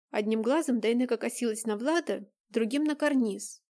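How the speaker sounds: usual speaking voice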